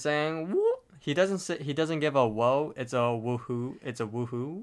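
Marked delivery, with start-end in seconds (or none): 0.5-0.7 high celebratory whoop; Rigby. Retold or imitated. Rigby celebrates his game score, imitated victory whoop. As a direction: let out a quick, high "woo". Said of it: "Rigby celebrates".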